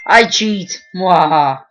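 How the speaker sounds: gloating villain boast; sneering panto villain. Pretend. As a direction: cackle like a cartoon baddie. Gloating villain laugh after cheating.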